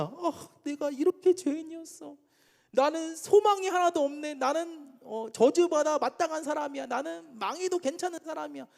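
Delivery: high-pitched acted despair, without real sobbing; tearful lament. Preacher voicing Israelites grieving their sinful state, acted lament. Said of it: "막 눈물이 멈추지 않아".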